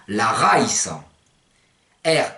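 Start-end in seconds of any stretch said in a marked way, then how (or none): 0.1-0.9 LA RAÏS slow, with a final o, "raisso"; Provençal pronunciation. Shown as a demonstration. Teacher translating shower, slow Provençal pronunciation. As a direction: draw out la raïs as "ra-ï-sso". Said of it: "ça se dit".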